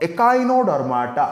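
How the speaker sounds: ଏକାଇନୋଡର୍ମାଟା with a K sound, drawn out clearly; model pronunciation. Shown as a demonstration. Teacher tells students to look, carefully modelling ଏକାଇନୋଡର୍ମାଟା. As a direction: say ଏକାଇନୋଡର୍ମାଟା emphatically for learners. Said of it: "correct ପ୍ରନାଉନ୍ସିଏସନ୍ କର".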